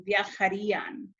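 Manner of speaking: "viajarían" with the beat on the í, viajaRÍan; stress on accented í. Shown as a demonstration. Teacher showing which syllable gets emphasis, stress on the í of "viajarían". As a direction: lean on the í in "viajarían". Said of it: "that's the syllable that receives the emphasis".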